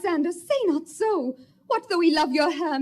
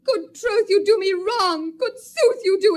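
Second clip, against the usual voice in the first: tearful protest; 2 semitones higher, 5 dB louder than usual. Acted. Helena thinks she is mocked.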